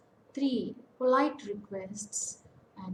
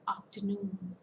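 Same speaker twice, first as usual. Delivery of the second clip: "afternoon" with a long vowel in NOON; long stressed vowel; 4 dB quieter than usual. Shown as a demonstration. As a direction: stress the last syllable of "afternoon". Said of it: "the vowel is a long vowel".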